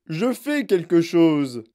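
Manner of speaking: agacé. Acted. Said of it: "dit monsieur Gloop".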